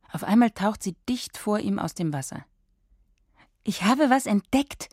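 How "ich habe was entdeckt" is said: announcing. A narrator's reading. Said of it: "verkündet sie".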